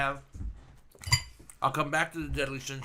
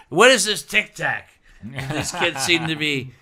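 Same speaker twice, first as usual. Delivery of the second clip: loud, higher-pitched, drawn-out cluelessness; mock bafflement; 3 semitones higher, 10 dB louder, slower than usual. Podcaster pretending not to know TikTok, mock-baffled. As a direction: play someone clueless about what the kids like.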